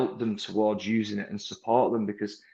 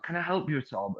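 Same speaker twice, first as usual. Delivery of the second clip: defeated salesman tone; 3 semitones higher, 4 dB quieter than usual. Retold or imitated. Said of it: "what that body language is like".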